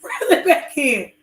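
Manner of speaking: slow half-teasing repeat; milder mocking echo. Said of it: "say it like how you say it".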